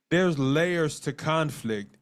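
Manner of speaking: slow, deliberate delivery so notes can be taken; said slowly. Shown as a demonstration. Teacher to note-taking couples, slow and deliberate. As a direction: lay each word down slowly for them to write. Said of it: "'cause I'm gonna say it slow".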